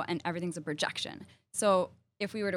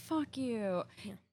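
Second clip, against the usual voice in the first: sweet, pitched-up delivery; 5 semitones higher, 6 dB quieter than usual. Saying a curse in the nicest way: Sarah Silverman, nicest way. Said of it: "if you say like, fuck you in the nicest way".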